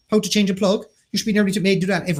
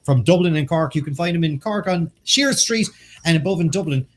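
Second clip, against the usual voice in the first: ad read; 3 semitones higher than usual. Acted. Sponsor ad read.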